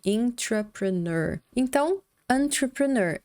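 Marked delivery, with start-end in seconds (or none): 0.0-1.4 intrapreneur started clearly with in, said slowly. Shown as a demonstration. Teacher contrasts intrapreneur with entrepreneur, slow. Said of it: "Seria com in aqui".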